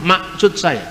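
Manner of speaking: maksud with the middle k dropped, masut; Batak pronunciation. Shown as a demonstration. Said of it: "kan orang Batak nggak ngomong". (logat Batak, k di tengah hilang)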